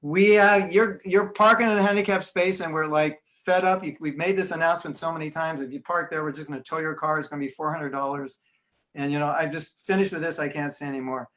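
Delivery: done with asking nicely; fed-up American announcement. Retold or imitated. American temple announcer scolding a car in the handicapped space, fed up. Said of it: "I come to a temple in America and I go".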